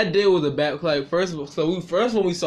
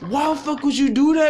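mock angry mother; 8 semitones higher, 3 dB louder than usual. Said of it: "the lady's like".

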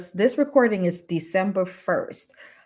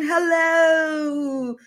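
Aussie hello, high and drawn out; Australian accent; 7 semitones higher than usual. Pretend. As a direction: greet like a cheery Australian. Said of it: "That was my famous Australian accent".

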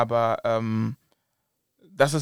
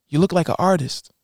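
imitated videoguy; 5 semitones higher, 4 dB louder than usual. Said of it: "Dann meinte ich so".

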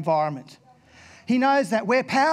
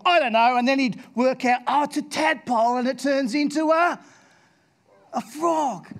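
lightly voiced little boy working it out; a hint of a curious kid; child voice; 5 semitones higher than usual.

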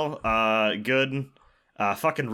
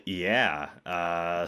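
ordinary talk, nothing marked

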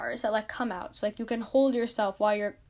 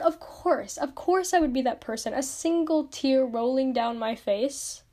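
mock exasperated. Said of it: "And I'm like".

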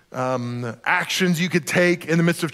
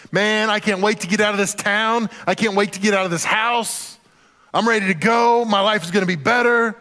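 imitating a teenager itching to leave, higher pitch; impatient teen bravado; 5 semitones higher than usual. Preacher voices a teenager leaving home, eager impatience. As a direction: push it out eagerly, held up high.

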